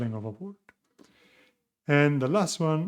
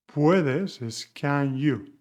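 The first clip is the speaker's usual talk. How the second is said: slow and deliberate; 3 dB louder, much slower than usual. Shown as a demonstration. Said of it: "slow explanation".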